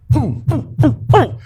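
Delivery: put-on teasing "poo, poo" like a child; mock taunting. Arrested date taunting from backseat.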